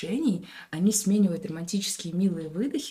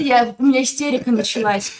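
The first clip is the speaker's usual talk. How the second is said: usual speaking voice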